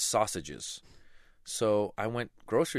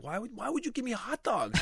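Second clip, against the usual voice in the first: mock crying.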